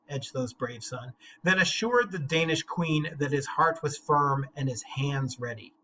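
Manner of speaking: measured, deliberate reading of epic verse; dramatic reading of a translated epic; poem reading. Acted. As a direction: read it like an old saga, weighty and steady. Reading the Beowulf translation aloud.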